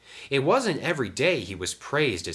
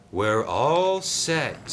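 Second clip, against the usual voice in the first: slow, higher, falsely friendly; smiling; 6 semitones higher, 4 dB louder, much slower than usual. A narrator's reading. Diesel tells Sam it's ready, smiling. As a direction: stretch it out with a smile. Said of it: "smiled Diesel".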